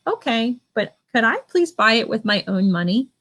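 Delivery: polite tone. Shown as a demonstration. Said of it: "See my tone there?".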